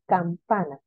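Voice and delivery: campana with weight on the middle PA; stress on penultimate syllable. Shown as a demonstration. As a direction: lean on PA in campana. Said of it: "Tiene el acento en las penúltimas sílabas".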